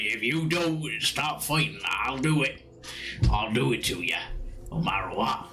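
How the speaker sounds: lightly voiced rustic landlord warning brawlers; scolding landlord. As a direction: threaten them in a touch of farmer accent. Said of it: "And he's like".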